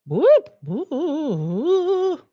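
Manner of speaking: high playful cheer; excited whoop. Real, not acted. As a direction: whoop it up like a little celebration. Cheering at end of stream.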